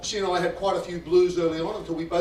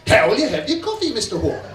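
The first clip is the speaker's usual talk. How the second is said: pointedly louder and higher; insistent, louder repeat; 5 semitones higher, 7 dB louder than usual. Retold or imitated. Waitress repeating the question firmly at Hawke. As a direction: hit it harder the second time.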